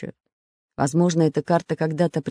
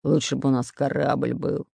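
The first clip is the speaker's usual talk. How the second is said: low-key, softer grumbling growl; displeased growl; 3 semitones lower, 5 dB quieter than usual. Acted. Pirate wishes they had a ship, growling discontentedly. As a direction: grumble it under a slight growl. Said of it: "недовольно прорычал Буль-Буль".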